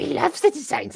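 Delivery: very high, creaky, rough, squeezed-out croak. Joking about a word sounding like Gollum: Gollum voice. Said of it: "it's like Gollum".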